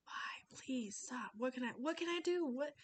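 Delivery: pleading mom, voice climbing; helpless plea to a screaming child; exasperated mom. Acted. Acting exasperated mom of tantrum.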